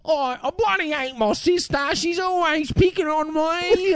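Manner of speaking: put-on high, whining Australian kid voice, last words drawn out; thick Australian child. Host imitating children in old footage, broad Australian kid accent. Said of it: "it was mostly children, and they were like".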